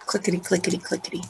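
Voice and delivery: softly voiced keyboard clicks; quick little mouth-made typing sound; keyboard clicking. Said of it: "clicking on a cue, keyboard".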